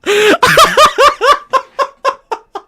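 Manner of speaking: long high-pitched cackle; helpless burst of high laughter; high laughing fit. Real, not acted. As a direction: crack up, high and drawn out. Cracking up at a clip.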